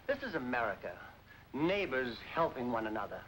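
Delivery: stirring speech. Acted. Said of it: "Dad made a stirring speech".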